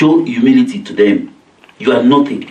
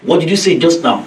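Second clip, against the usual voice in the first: higher-pitched, mildly disrespectful retort; talking back; 4 semitones higher than usual. Acted. Child talking back to a parent, mildly insolent. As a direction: lightly challenge the elder. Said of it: "from somebody lower to somebody higher".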